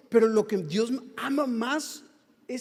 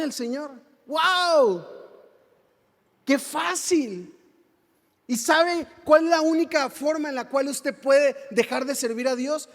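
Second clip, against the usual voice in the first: impassioned sermon delivery with rising calls; preaching; 4 dB louder than usual. Acted. Pastor preaching to his church, fervent sermon. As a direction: preach it to the congregation.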